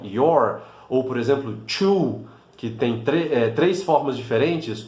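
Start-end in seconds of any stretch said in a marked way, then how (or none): 0.0-0.6 "your" dito igual, em inglês; palavra inglesa. Shown as a demonstration. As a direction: repita "your" com o mesmo som. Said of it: "são escritas da mesma forma". ("your" pronunciado em inglês)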